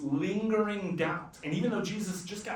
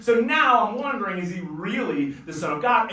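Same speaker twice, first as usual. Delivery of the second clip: louder, pressing doubt; doubting father; 6 dB louder than usual. Acted. Father doubting Jesus before the crowd, loud and pressing. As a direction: push the question hard, half shouting.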